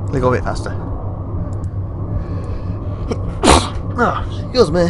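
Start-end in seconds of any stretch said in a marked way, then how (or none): 0.8-4.0 sneeze. Real, not acted. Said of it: "sneezing there".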